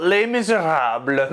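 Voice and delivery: "Les Misérables" said with a hammed-up French accent, lay-MEE-zeh-RAHB; a deliberately bad French accent on "Les Misérables"; mock French accent. Shown as a demonstration. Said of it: "That's a terrible French accent".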